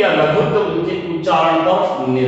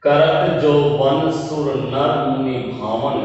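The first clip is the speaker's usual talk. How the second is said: slow, measured reading of a chaupai; slow verse recital; slower than usual. Shown as a demonstration. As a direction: recite the verse line slowly. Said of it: "जैसे". (धीमे स्वर में चौपाई पाठ)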